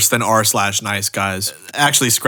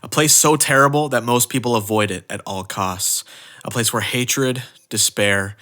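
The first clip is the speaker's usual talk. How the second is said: measured, dramatic storyteller delivery; solemn trailer-style voiceover with weighty pauses; mock-epic intro narration; 2 semitones lower, 3 dB quieter than usual. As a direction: build up a grand tale of good and evil. Mock-epic scripted intro over music.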